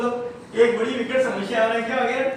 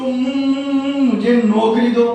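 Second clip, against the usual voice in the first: put-on stuttering boy; 4 dB louder, slower than usual. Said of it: "तुतला के बोलता है".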